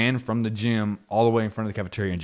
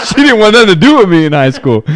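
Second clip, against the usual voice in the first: high laughing voice; 14 semitones higher, 15 dB louder than usual. Real, not acted. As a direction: crack up at yourself. Laughing about his wife.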